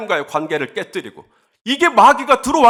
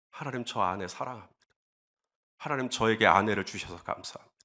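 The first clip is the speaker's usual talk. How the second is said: low, hushed confession to God; quiet prayer; 9 semitones lower, 12 dB quieter than usual. Retold or imitated. Husband praying to God about loving his wife, hushed. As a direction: pray softly, almost under the breath. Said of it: "제가 계속해서 기도하는 것이죠".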